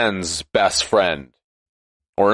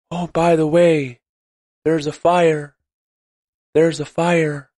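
mock calm voice; 3 semitones higher than usual. Shown as a demonstration. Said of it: "Do you speak in a calm voice like this".

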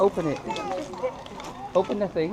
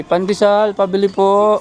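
louder, clearly spaced prompt; model phrase for child; 3 semitones higher, 7 dB louder, slower than usual. Shown as a demonstration. Father coaching son to order bread, loud and clear. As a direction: say it slowly so the boy can repeat it.

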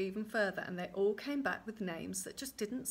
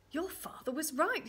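higher pitched, approving; delighted king; 7 semitones higher than usual. Acted. King praises the girl, delighted. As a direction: praise her with lifted pitch.

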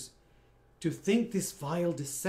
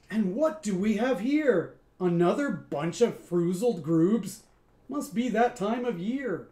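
a louder, lightly voiced sneering junkyard alien; 3 semitones higher, 4 dB louder than usual. Alien figure mocks the newcomers, loud lazy sneer. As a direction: greet them with lazy scorn.

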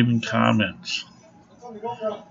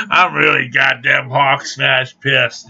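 emphatic, drawn-out angry declaration; really pissed; 3 semitones higher, 4 dB louder than usual. Real, not acted. Telling viewers how pissed he is, angry and emphatic. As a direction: lean hard on each word, slowly. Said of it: "When I get really pissed".

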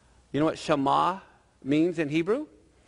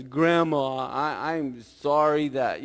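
slow, halting mock apology; lightly acted guilty boy; sheepish confession; much slower than usual. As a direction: stammer into a reluctant confession. Johnny confesses to Grandma.

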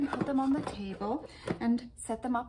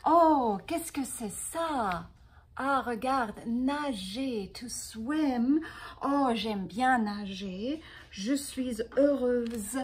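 louder, cheerful mock delight; happy; 6 dB louder, slower than usual. Shown as a demonstration. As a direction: act pleased for the students. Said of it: "happy mailbox". (démonstration de joie joyeuse)

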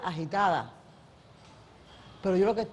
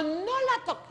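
quoting the director; 14 semitones higher, slower than usual. Retold or imitated. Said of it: "dice Humberto".

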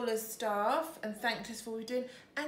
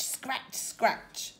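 whispered; 3 semitones higher than usual. Acted. Bear scratching, whispered sound words.

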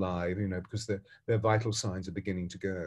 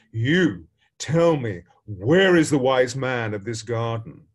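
a samurai throwing his full weight behind the words; commanding demand; 7 dB louder than usual. Retold or imitated. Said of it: "summons all of his might and says".

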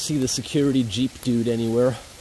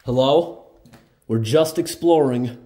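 raised voice announcing yourself; calling out; 4 dB louder than usual. Real, not acted. Explorer announcing himself inside an abandoned building, calling out. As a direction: call out to whoever might be inside.

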